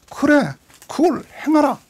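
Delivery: whispered, breathy reply from Jesus; hushed Jesus line. Acted. Preacher voicing Jesus to the rich ruler, whispered. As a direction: say it in a hush, gently and intimately.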